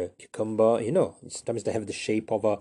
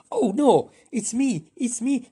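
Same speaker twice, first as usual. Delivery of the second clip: put-on much higher, childish insistence; squabbling claim; 13 semitones higher, 4 dB louder, slower than usual. Two wizards fighting over the spell, high and whiny. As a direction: whine that it's your turn. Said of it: "this is them fighting".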